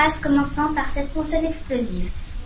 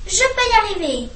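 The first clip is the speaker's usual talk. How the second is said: eager; 7 semitones higher than usual. Acted. Owlet psyches himself up.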